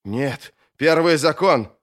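slow, urgent appeal to the rule; a touch of alarm, each word weighed; alarmed protest. Acted. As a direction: object firmly, invoking the forbidden.

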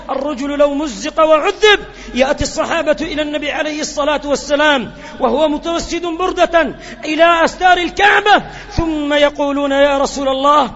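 stirring pulpit call; full-force preaching. Acted. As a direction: press the plea on the listeners. Preacher rises again at full force.

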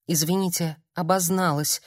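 woman coldly brushing off the visitor; cold apology. Acted. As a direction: shut the stranger out coolly. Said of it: "холодно сказала Ольга".

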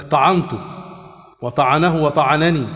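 "طعنته", "وطعنه", "وطعنني" each with an a after the ع; fatha on the ayn. Shown as a demonstration. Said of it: "بالفتح". («وطعنني» بفتح العين)

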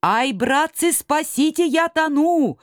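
high, frantic yelling; panicked cry for help. Acted. Мурзилка, drowning in the stream, cries in panic. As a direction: cry out as if going under. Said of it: "закричал Мурзилка, захлёбываясь".

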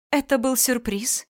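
a sweet, teasing reveal; coy wife. Acted. Wife coyly announcing.

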